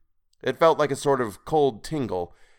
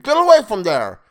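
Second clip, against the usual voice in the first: high, very loud creature command; scream; 12 semitones higher, 12 dB louder than usual. A narrator's reading. Creature warning captive off the temple, screaming. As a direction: scream to stop the intruder. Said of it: "Toadface screamed".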